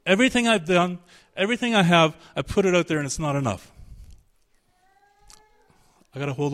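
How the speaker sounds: desperate begging, rising then fading; pleading. Shown as a demonstration. Jacob clinging to the angel, desperate pleading. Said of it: "Jacob wept and begged, pleading".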